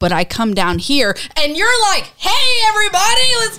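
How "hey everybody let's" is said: mock shrill, very high, carrying shout. Telling the person opposite how they greet everyone, imitating someone shouting. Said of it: "There's no reason to shout at me".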